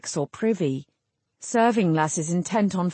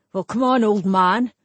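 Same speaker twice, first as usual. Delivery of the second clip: taunting; 3 semitones higher, 5 dB louder than usual. A narrator's reading. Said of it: "he said at last".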